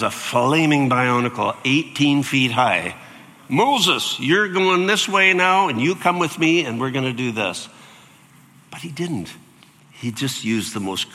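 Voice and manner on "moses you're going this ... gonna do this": loud, higher, commanding God; booming God voice. Pretend. Preacher voicing God ordering Moses, loud and commanding. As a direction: boom it down like a giant god. God as giant flaming Bionicle.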